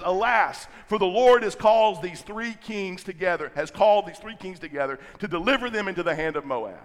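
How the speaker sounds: a hint of panic, pitched a bit up and rushed; Jehoram's understated panic; panicked king. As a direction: cry out in mild alarm, hurrying the words. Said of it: "You hear the panic?".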